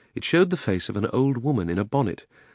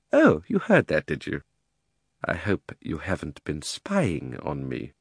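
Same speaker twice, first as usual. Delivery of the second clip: put-on suspicious old uncle; 4 semitones lower, slower than usual.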